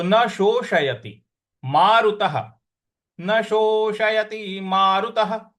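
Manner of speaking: Sanskrit line intoned clearly; slow recitation. Shown as a demonstration. Teacher recites the line for students to repeat. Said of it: "तो पूरी पंक्ति क्या बन रही है".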